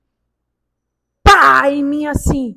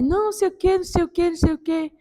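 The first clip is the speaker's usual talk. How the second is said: mock dismissive doctor; 5 semitones higher, 3 dB quieter, much faster than usual. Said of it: "Aí ele".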